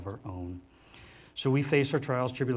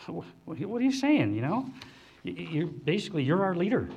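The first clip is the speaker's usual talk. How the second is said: higher, louder pleading disciple voice; voicing the confused disciples; 5 semitones higher, 3 dB louder than usual. Preacher voicing a bewildered disciple, pleading and stammering.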